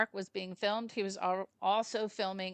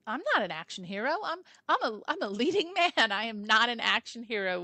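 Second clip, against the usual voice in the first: incredulous protest; 3 semitones higher, 5 dB louder, faster than usual. Retold or imitated. Retelling an actor balking at an action role, mock incredulous protest. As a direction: object in disbelief, half-laughing.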